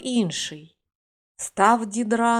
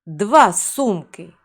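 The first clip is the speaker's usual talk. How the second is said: slow, louder magic command; shouted spell; 6 dB louder, slower than usual. Acted. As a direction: call the spell out slowly and firmly. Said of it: "то відкрий її і крикни". (повільний гучний вигук-заклинання)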